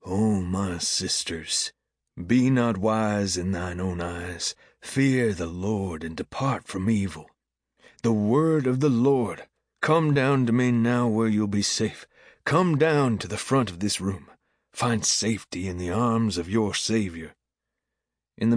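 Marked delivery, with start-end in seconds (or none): 0.0-7.3 slow, solemn preacher's address; intoned preaching. A narrator's reading. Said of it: "he intones". 8.0-17.4 raised preacher's voice, gradually settling; altar call. A narrator's reading.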